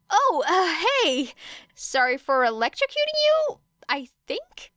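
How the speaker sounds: nervous laughable sorry; lightly voiced sheepish teen boy. Sheepish Kaminari apologizes.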